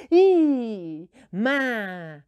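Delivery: drawn-out loud yell; shouting. Shown as a demonstration. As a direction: call it out as loud as you can. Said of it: "quiero oírte gritando bien alto". (gritando con fuerza)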